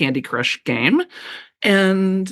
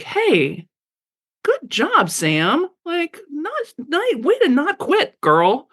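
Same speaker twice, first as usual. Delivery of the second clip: bright, high cheering for herself; encouraging inner voice; 8 semitones higher, much slower than usual. Retold or imitated. Cheering herself on after small steps, upbeat high. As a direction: lift each word up like a coach. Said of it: "I hear that voice".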